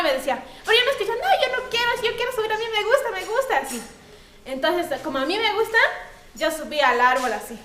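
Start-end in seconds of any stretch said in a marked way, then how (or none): 1.1-3.6 put-on higher, whiny little-girl protest; a little girl arguing with her mother, whiny; stubborn child. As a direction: insist like a stubborn small child.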